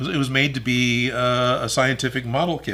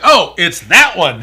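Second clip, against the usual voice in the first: excited recognition; 6 semitones higher, 11 dB louder, slower than usual. Retold or imitated. Retold own recognition.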